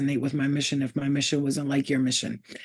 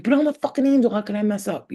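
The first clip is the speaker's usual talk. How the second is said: half-joking angelic outrage; mock outrage; 4 semitones higher than usual. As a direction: act shocked at your own mistake. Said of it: "we're like".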